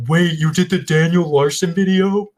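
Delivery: high, astonished question; the sudden recognition of a fan; a stranger realising who they've met; surprised recognition. Retold or imitated. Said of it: "and then they're like".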